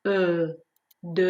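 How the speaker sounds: ا as a held rounded eu, then د as deux; drawn-out French eu. Shown as a demonstration. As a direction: model the eu alone in ا, then in د. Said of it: "یک کوچولو کشیده تر".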